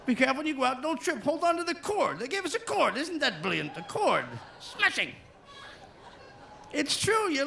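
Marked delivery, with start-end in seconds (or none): 0.0-5.1 very high, chirpy mock English accent; English accent babies. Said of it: "They're like".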